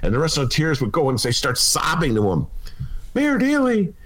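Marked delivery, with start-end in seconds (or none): 3.1-3.9 a hint of a pleading old lady, higher; lightly voiced Phyllis begging the mayor; inner Phyllis. Restaurateur begs Mayor Daley, lightly voiced pleading. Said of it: "channeling my inner Phyllis".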